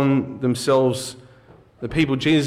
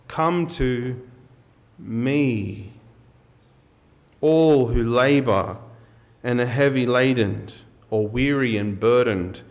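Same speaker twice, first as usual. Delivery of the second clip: deliberate public Bible reading, pausing between phrases; scripture reading. Acted. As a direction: read the passage out with weighted emphasis. Let's reread that together.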